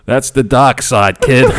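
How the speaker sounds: slow, solemn mentor intoning; a light hint of a wise old Jedi; Obi-Wan. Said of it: "Obi-Wan would be proud".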